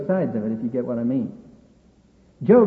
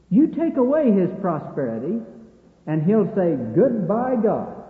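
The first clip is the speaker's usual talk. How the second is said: emphatic mock challenge, building louder; Satan's sneer; 3 semitones higher, 4 dB louder, slower than usual. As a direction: throw down the sneering challenge in measured phrases. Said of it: "significance of Satan's sneer".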